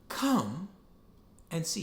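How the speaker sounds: tender welcoming repeat; gentle invitation. Shown as a demonstration. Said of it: "He says the phrase again".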